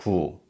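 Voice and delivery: "gu" said clearly and even; model syllable gu. Shown as a demonstration. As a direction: repeat "gu" for learners. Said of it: "So this syllable is gu".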